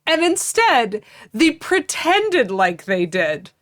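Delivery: high-pitched, emphatic indignation; mad. Real, not acted. Co-host objecting to a fake skier, indignant. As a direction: climb in pitch as the grievance builds. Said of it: "I'm legitimately mad about this".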